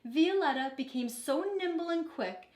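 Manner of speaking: put-on lively picture-book reading for kids; storybook read-aloud. A narrator's reading. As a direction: read it like a teacher to her class. Teacher reads picture book aloud.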